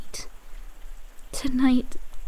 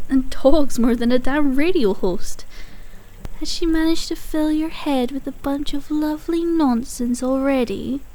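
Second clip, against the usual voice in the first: ordinary talk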